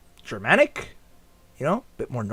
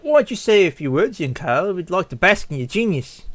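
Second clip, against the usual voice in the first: lightly voiced, polite coaxing; flattering guest. Gala guest asking young Carl to speak, polite flattery. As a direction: coax the child with mild admiration.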